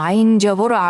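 আ in "আইন জবর আ" held long, about one full second; stretched vowel. Shown as a demonstration. Teacher showing students how to stretch আ for one second. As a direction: draw out the final আ slowly like a Quran teacher. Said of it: "এক second টেনে পড়লাম".

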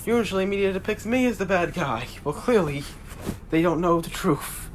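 a god warning his brother; loud god voice. Acted.

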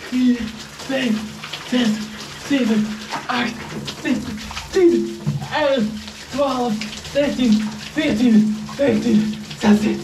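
frantic count, voice climbing from the cold; in ice cold water. Real, not acted.

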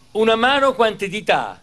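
big, bright quiz-master questions to a crowd; milk each question like a TV host; showy game show host. Acted. Quizzing schoolchildren like a quiz. (presentatore da quiz televisivo)

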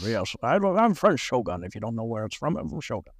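1 mock British accent. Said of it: "he talks like this".

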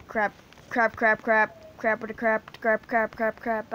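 a player panicking as the principal falls sick; panicked crap. Real, not acted. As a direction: blurt it over and over in a panic. Panicking after principal falls ill.

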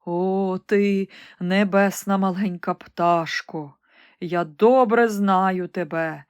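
the recovered emperor thanking the bird; grateful emperor. Acted. Grateful emperor addresses nightingale. (вдячний імператор)

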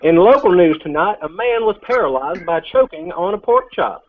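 hammed-up local news anchor voice; mock news anchor accent. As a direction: read it like a cheesy TV newsman. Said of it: "talk the whole rest of this thing in this accent".

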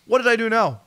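high, slowed incredulous pleading; mock bewildered protest. Player called to coach's office, high mock bewilderment. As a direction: protest in disbelief, pitched well up.

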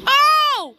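sudden high startled oh; surprised. Real, not acted. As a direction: yelp in surprise. Surprised cry while playing.

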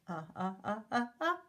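short repeated uh sounds; sounding out uh. Shown as a demonstration. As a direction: pulse out uh, uh, uh. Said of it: "who says the uh sound?".

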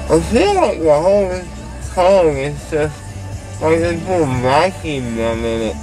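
numb mouth, slurred words; drowsy and slurred; groggy from anesthesia. Real, not acted. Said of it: "rest your mouth".

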